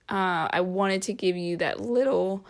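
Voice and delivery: a real crack mid-word. Real, not acted. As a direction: voice cracks on little. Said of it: "whoa, my voice just cracked".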